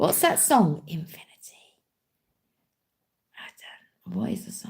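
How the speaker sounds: speaking in a whisper. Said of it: "'cause you're whispering".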